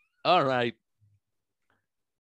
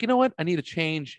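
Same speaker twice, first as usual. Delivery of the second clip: mock excited self quote; 7 semitones higher than usual. Husband retelling his impulsive shave to the cohosts, higher, mock excited. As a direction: pitch it up like a rash, impulsive decision. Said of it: "I was just like".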